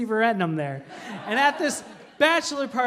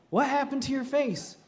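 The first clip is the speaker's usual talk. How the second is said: an outsider's attempt at a Southern accent; concerned question, lightly Southern; 4 semitones higher than usual. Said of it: "I don't have a great Southern accent".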